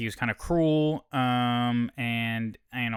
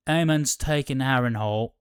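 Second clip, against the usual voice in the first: badly faked character accent; Criston Cole; 4 dB louder than usual. Recapper quoting a knight from the show, terrible put-on accent. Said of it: "I did a terrible Criston Cole accent just now".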